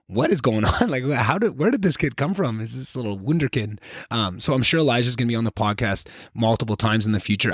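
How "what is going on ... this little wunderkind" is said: amazed, higher-pitched inner monologue with a laugh; awestruck disbelief. Retold or imitated. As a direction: marvel in bewildered, amused awe. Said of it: "sitting there in awe of like".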